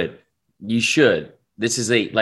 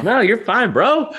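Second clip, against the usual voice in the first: laughing; 12 semitones higher, 4 dB louder, slower than usual. Real, not acted. Laughing reassurance to a long caller.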